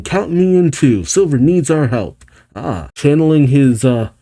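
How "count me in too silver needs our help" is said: eager. Acted. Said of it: "Tails gets jazzed".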